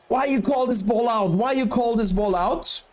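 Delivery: imitating an angry player yelling at the umpire; hammed-up shouted complaint, second time sing-song; mock angry shout. Player to line umpire, a mock angry shout.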